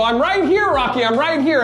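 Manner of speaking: high, sweet reassurance; Adrian's tender words. Retold or imitated. Adrian answering Rocky's call, tenderly high. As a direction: say it sweetly, full of love. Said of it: "she'd go".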